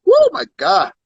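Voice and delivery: flustered, fanning self while talking; hot and bothered, fanning; fanning oneself. Real, not acted. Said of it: "let me fan myself".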